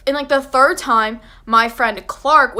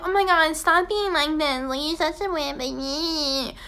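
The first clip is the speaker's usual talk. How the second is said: higher, whiny teasing voice fading softer; mock taunting friends; 5 semitones higher, 4 dB quieter than usual. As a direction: sneer at the scaredy baby. Mocking friends tease scared narrator.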